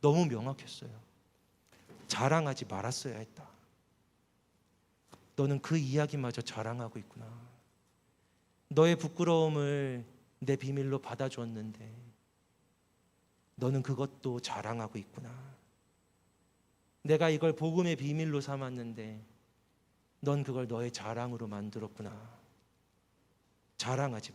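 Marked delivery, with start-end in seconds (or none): 2.1-3.5 stern inner voice. Retold or imitated. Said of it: "목소리 하나가 들렸어요". 5.4-22.4 God's rebuking voice. Retold or imitated. God's voice in the heart rebuking the bragging believer, low and hushed. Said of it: "목소리 하나가 들렸어요".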